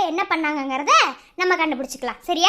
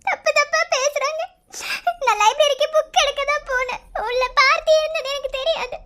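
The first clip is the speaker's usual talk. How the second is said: higher, tearful protest with sobs; crying; 5 semitones higher than usual. Acted. Niece tearfully telling her uncle she did nothing wrong. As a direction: plead through tears. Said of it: "அப்புறம் எதுக்கு அழுகுற?".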